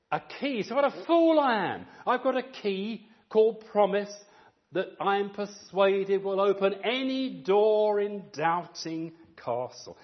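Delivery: a touch of eager relief; excited realisation. Retold or imitated. Christian finding the key in Doubting Castle, mildly excited.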